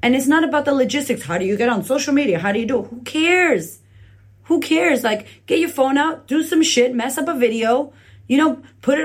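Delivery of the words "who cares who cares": dismissive. Real, not acted. Dismissing worries loudly.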